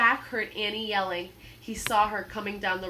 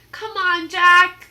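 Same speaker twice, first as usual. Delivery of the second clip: higher, loud urgent shout; 9 semitones higher, 16 dB louder, slower than usual. Acted. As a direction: yell him back. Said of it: "Annie shouted".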